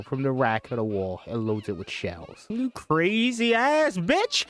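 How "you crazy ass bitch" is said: high, slow, raging shout; furious scream. Acted. Ash raging at possessed Linda, furious slow scream. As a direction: scream it as you load the gun.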